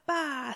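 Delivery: a child's mock sheep "baa"; lamb bleat. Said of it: "said the little lamb".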